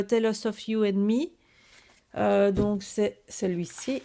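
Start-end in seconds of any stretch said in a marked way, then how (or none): 0.0-1.3 the English title Tell Us of You and Me in a French accent. Real, not acted. Vlogger naming a paper collection to viewers, in French-accented English. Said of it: "si vous n'avez pas bien compris mon accent".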